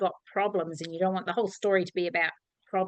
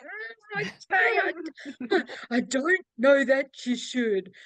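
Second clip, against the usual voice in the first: hesitant doubt; 6 semitones higher, slower than usual. Retold or imitated. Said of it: "And I'm like".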